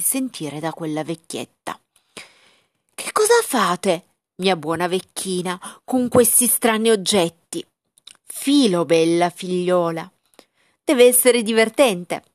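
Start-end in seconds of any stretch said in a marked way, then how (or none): 2.9-7.7 raised voice. Acted. Princess speaks to deaf old woman. 8.2-12.2 raised voice. Acted. Deaf old woman answers.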